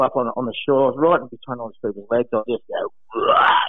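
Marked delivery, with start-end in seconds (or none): 3.1-3.6 loud triumphant roar; a short, loud victory roar; celebratory shout. Retold or imitated. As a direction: bellow it at the crowd. Celebrating on the beach.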